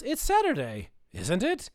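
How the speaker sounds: lightly voiced cartoon dad querying the day; Daddy Pig. Cartoon husband answering his wife, lightly puzzled. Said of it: "He goes".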